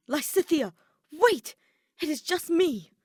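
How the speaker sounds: loud, high call across the hall. Acted. Edelgard calls to frightened Lysithea, loud high call. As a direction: call out to stop her screaming. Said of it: "A familiar voice called her name".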